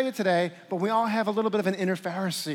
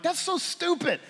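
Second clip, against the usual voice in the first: muttered complaint; 10 semitones higher than usual. Retold or imitated. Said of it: "I'm like".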